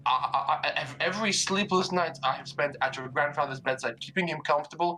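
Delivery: agitated mother. Acted. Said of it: "your mother is getting a little bit agitated".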